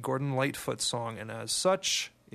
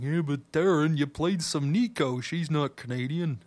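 nitpicking listener voice; 3 semitones higher than usual. Retold or imitated. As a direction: lightly voice a pedantic listener objecting. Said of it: "I can hear you in the background going".

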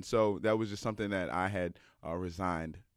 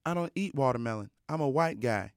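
deadpan coach; 5 semitones higher than usual. Retold or imitated. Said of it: "he said just like that".

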